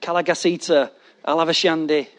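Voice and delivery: mock repetitive prayer tongues; stuck tongues. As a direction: chant the same two words by rote. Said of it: "stayed at that".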